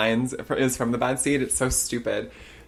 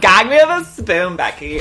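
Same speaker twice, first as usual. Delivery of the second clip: put-on loud, high bubbly valley girl; Valley Girl accent; 8 semitones higher, 9 dB louder than usual. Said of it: "the Valley Girl Isles".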